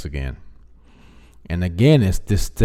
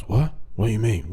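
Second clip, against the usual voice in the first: mock surprise; 2 semitones higher than usual. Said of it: "No, he talks".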